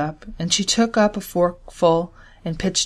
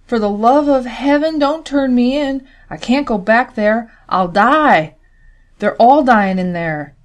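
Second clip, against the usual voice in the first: frightened begging, higher and louder; escaped prisoner begging the girl not to turn him in; desperate plea; 5 semitones higher, 6 dB louder than usual. A narrator's reading. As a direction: plead for your life.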